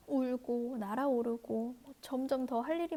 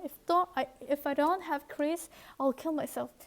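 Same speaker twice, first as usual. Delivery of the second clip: desperate cry; 3 semitones higher, much slower than usual. Acted. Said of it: "울부짖었어요".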